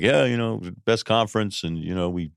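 a touch of low-key, mumbling coach modesty; mild mock of a coach playing it down; passive coach talk. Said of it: "a real passive".

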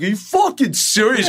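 high, squeaky disbelief; incredulous. Retold or imitated. Doug gawking at Nicole Kidman greeting him, high incredulous squeak. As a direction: play up the shock. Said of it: "And Doug's like".

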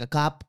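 "cop" with a closing P in place of F; Filipino P for F. Retold or imitated. Daughter quotes mom asking about coughing, "cop" ending in P. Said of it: "F's or P's".

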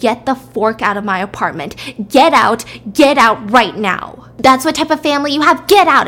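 loud furious eviction yell; screaming at them. Acted. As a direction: throw them out at full volume. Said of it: "she starts screaming at the Kim family".

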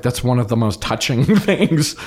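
touched words broken by a laugh. Real, not acted. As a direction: laugh through the gratitude. Touched by director's loyalty.

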